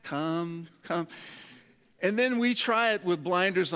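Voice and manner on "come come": hushed, unhurried invitation; gentle beckoning. Retold or imitated. Acting Jesus calling the wanderer back.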